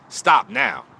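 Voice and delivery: sudden loud high cry of stop now; urgent plea. Real, not acted. To followers with drinking relatives, loud pleading call. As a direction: shout it at them, begging them to quit. Urging listeners to quit drinking.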